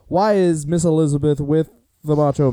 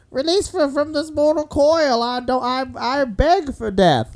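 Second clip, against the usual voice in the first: dramatic mock plea; 9 semitones higher, slower than usual.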